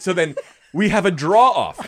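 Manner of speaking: ordinary delivery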